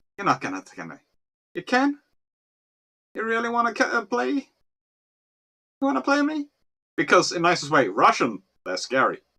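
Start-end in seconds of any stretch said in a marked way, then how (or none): 0.2-6.5 full-on Scottish accent, pitched up. Explaining how you'd scare people off, going into a full Scottish accent. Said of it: "I go full Scottish".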